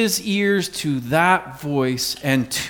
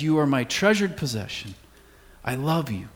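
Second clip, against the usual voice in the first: hushed and softer, fading on I love you; tender voice of God; 3 semitones lower, 6 dB quieter than usual. Acted. Pastor voicing God's love to the congregation, softly tender. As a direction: speak it gently like a loving father.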